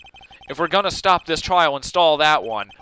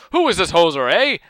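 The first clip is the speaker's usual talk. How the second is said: put-on Canadian accent; 4 dB louder than usual. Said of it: "he's Canadian".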